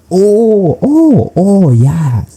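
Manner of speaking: imitating high-pitched dawning recognition; delighted realization. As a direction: act out his "aha" moment, way up high. Acting out his delighted recognition.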